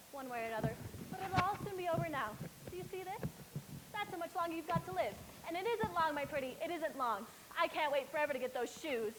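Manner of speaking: cackling, cruel witch voice; menacing witch. Acted. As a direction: gloat like a wicked witch. Witch threatens girl.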